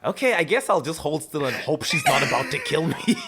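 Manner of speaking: laughing, resigned mock of Luke; mock resignation. Luke letting the vampire bite him, mock calm. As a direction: shrug it off while laughing. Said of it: "he was like".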